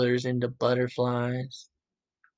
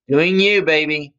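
excited; 5 dB louder than usual. Real, not acted. Hype closing line.

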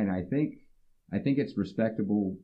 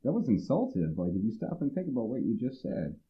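pointed calling out; 4 semitones higher than usual. Retold or imitated. Calling out an insult.

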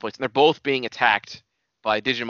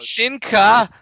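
high, slow, loud anime cry; drawn-out mock battle cry; imitated evolution call; 9 semitones higher, 8 dB louder than usual. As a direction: echo your friend's transformation shout. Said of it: "Like you said".

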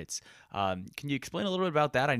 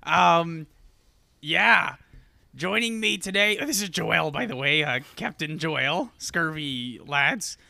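loud, high Scottish pirate voice; booming Scottish pirate welcome; 5 semitones higher, 6 dB louder, slower than usual. Acted. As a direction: ham up a Scottish-accented pirate host. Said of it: "I sound like a Scottish pirate".

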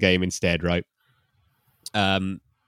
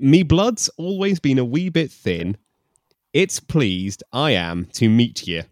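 put-on Scottish accent; 6 semitones higher, 4 dB louder than usual. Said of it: "that's not it".

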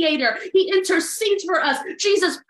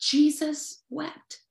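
softer, slow Jesus wept; quietly savoured verse; hushed and slow; 6 dB quieter, slower than usual. Shown as a demonstration. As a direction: let it land gently and slowly. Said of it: "John eleven thirty-five says it".

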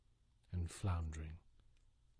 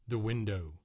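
rising cry of horror; the start of a panicked scream; terrified cry; 4 semitones higher, 8 dB louder than usual. A narrator's reading. Narrator sees the creature.

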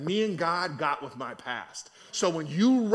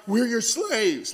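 drawn-out mock surrender, slightly raised; abject surrender; 3 semitones higher, slower than usual. Preacher replaying the brothers' plea, drawn-out surrender. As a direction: stretch out SLAVES as you submit.

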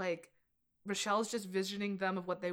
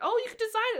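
mock condescending; 11 semitones higher, faster than usual. Romy telling Michelle she can just design it, high and condescending. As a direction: talk down to her friend sweetly. Acted friends' fight quote.

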